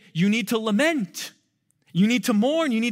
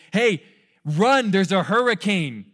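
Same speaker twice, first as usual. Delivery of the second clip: urgent call; 5 dB louder than usual. Pretend. Urgent warning called out to people.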